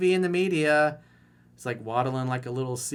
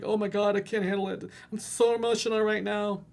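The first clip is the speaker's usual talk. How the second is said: high breathless mock panic, much higher; mock whiny girl; 7 semitones higher than usual. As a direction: ham up a helpless teen in a tizzy. Mocking emotional guy again.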